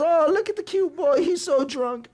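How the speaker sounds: very high-pitched cooing imitation; doting mother. Mother admiring her drunk son, doting coo. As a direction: coo over a baby, laughing at the end.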